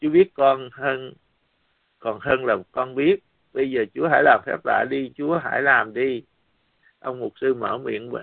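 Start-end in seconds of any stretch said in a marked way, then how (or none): 0.0-6.2 pleading lament. Retold or imitated. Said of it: "Tôi kêu than với Chúa".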